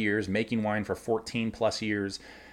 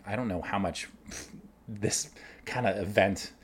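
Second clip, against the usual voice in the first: ordinary delivery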